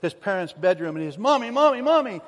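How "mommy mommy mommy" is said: put-on high, loud, urgent little-boy call; imitating a child's alarmed, higher-pitched calling; frightened child. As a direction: cry out for mommy like a scared kid. Scared child waking his parents.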